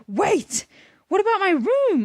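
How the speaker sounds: put-on high, pleading girl; girl's voice. A narrator's reading. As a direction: beg like an upset young girl. Narrator voicing herself as a girl.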